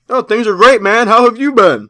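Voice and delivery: overly cheerful fake greeting; fake friendly. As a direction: act friendly though you want him gone. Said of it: "So of course I gotta act friendly".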